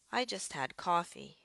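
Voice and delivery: "I just had coffee" up on "just had", down on "coffee"; rising-falling intonation. Shown as a demonstration. Teacher giving an example declarative sentence, rising-falling intonation. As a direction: lift "just had", let "coffee" fall. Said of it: "my voice went up on the".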